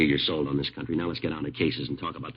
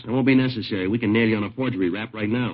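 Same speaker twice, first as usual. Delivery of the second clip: louder and higher, hard-pressing; stern threat; 4 semitones higher, 8 dB louder than usual. Acted. Detective warning the suspect he can be nailed now, stern and loud. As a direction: lean on him, lay down the law.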